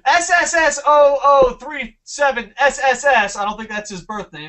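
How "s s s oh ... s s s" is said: laughing. Real, not acted. Reading troll's username.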